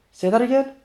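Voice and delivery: high, loud angry dare; threatening challenge. Acted. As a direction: dare him to repeat it.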